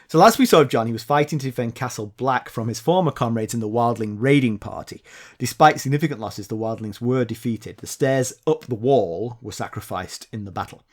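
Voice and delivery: measured read-aloud summary, falling low at sentence ends; story recap narration. Real, not acted. Host recapping Jon's last chapter for listeners, narrating.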